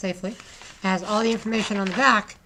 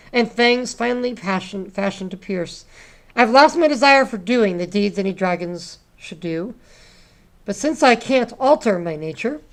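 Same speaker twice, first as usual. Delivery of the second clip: poem reading; 4 dB louder than usual. Acted. Teacher reading a dragon poem to students, dramatic loud reading. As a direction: perform the poem for the class with a big voice.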